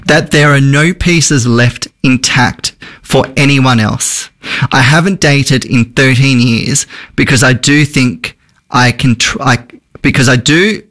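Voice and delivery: measured, unhurried read-aloud; deliberate reading of a heartfelt message; slow, serious reading. Real, not acted. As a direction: read it slowly, letting the weight land. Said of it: "I'll read it slow because it's kinda deep".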